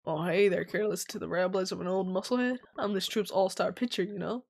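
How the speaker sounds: lightly voiced low, boastful old athlete; a hint of a washed-up circus star; old musclehead pitcher. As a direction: introduce yourself as the troupe's proud pitcher.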